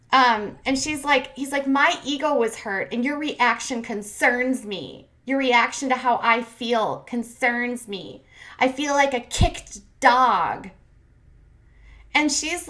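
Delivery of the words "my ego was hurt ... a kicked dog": slow, hammed-up wounded whine; exaggerated poor-me complaint; mock self-pity. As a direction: drag out each grievance mockingly. Mocking the man's wounded self-pity.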